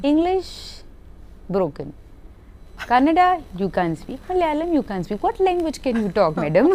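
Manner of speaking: high, incredulous mimicry breaking into laughter; despairing director listing languages, pitch leaping up; director's exasperated scolding. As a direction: imitate a baffled director demanding an answer. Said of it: "he looked at me, he's like".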